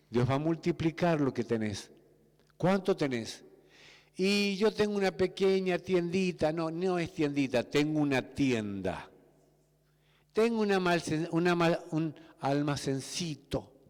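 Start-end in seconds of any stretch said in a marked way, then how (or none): 4.2-6.5 belittling tone. Retold or imitated. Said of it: "¿Viste que hablamos así". 10.3-13.9 self-belittling. Retold or imitated. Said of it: "¿Viste que hablamos así".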